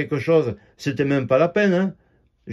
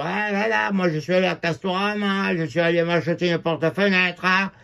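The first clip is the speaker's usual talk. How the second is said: a light mock southern French accent, a bit softer; imitating a crude nurse with a southern French accent; lightly voiced accent du midi; 3 semitones higher, 3 dB quieter than usual. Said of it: "Elle parlait comme ça, avec son accent du, du midi".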